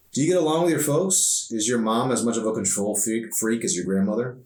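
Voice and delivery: put-on light girlish voice, prying gently; lightly voiced teen girl. Emery asks Arson about his family, lightly voiced girl.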